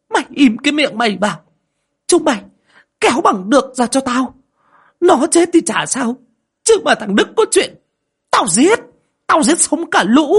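very high, loud threats; mother-in-law screaming threats at the servants; furious shouting. Acted. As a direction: bark orders and threats in rage. Mother-in-law raging, threatening everyone.

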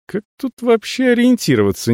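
high, baffled question; puzzled. A narrator's reading. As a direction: ask it truly at a loss. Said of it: "недоумевал я".

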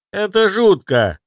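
high, slow, squeamish cry; Kirill disgusted. Acted. Apprentice grimacing at necromancer's tale, high disgusted cry. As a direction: recoil at the grim story. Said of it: "скривился Кирилл".

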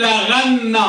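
slow la-ghan-na for لغن; teacher's careful model of لغن; lam and ghayn. Shown as a demonstration. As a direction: stretch لغن, gh in the middle, doubled n. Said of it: "باللام والغين المعجمة".

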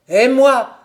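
loud, high outburst; crying out. A narrator's reading. Crippled elder son demanding his place from father, crying out. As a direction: cry it out, pitched high. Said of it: "cria-t-il".

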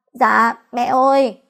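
slow, sniffly little plea to mother-in-law; sniffling. Acted. Wife calls her mother-in-law, sniffling and slow. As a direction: drag the words out through a sniffle. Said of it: "Nghe thấy tiếng thút thít của tôi".

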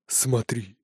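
cold, hushed, menacing; icy whisper. Acted. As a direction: breathe it out coldly. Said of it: "ледяным голосом прошептал".

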